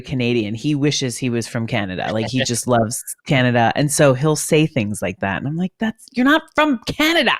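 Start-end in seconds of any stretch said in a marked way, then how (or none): 5.8-7.3 high-pitched teasing protest; mock exasperation. Guest teases colleague who loves Canada, mock exasperated. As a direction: call him out in playful high-pitched disbelief.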